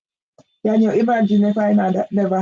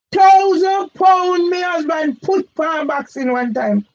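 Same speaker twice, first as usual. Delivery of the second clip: raised emphatic repeat; 6 semitones higher than usual. Real, not acted. Repeating husband's boxing bet forcefully.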